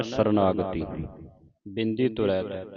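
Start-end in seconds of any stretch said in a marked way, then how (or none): 0.0-0.8 ਸਰਨਾਗਤੀ run together, no pause inside; joined as one word. Shown as a demonstration. Teacher models ਸਰਨਾਗਤੀ for students, joined as one word. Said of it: "ਇਕੱਠਾ ਹੀ ਉਚਾਰਨ ਕਰਨਾ".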